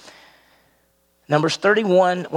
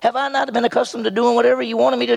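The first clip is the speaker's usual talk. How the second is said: donkey voice; 8 semitones higher, faster than usual. Acted. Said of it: "The donkey said to Balaam".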